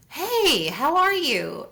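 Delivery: a sing-song shopkeeper welcome; cheery clerk greeting. Retold or imitated. Airport shop clerk greets her with a high chirpy hello.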